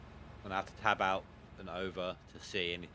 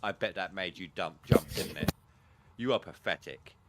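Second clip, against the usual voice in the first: deep gravelly voice. Retold or imitated. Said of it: "he's got a deep gravity voice".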